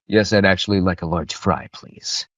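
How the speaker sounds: lightly voiced cranky villain, trailing off; a hint of cranky, driven authority; Ego voice. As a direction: order food like a cult leader, please nearly voiceless. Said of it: "suddenly shoots to Ego. That's my voice".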